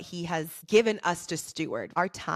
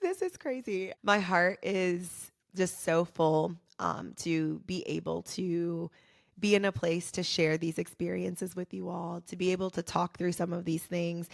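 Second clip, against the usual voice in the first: holding back tears. Real, not acted. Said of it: "I'm really trying not to cry right now".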